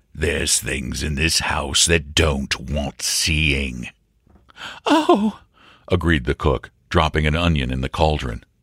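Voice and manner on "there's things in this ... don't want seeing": thick, gruff growling voice, slower. The butler keeps warning Wilfred in a thick, growling voice. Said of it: "in his thick, growling voice".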